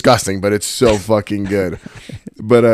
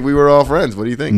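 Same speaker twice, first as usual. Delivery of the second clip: sardonic; 5 semitones higher than usual. Retold or imitated. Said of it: "I was like".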